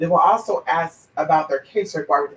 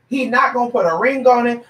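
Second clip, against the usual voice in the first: higher-pitched, insistent restatement; emphatic repeat; 5 semitones higher than usual. Real, not acted. Telling someone he will not marry her, emphatic and higher. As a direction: drive it home in a raised pitch. Repeats it to drive point home.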